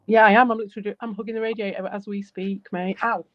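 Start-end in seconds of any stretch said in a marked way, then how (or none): 3.0-3.2 sharp ow of sudden pain; burnt finger. Real, not acted. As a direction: yelp from touching the hot radiator. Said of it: "I just burnt my finger on it".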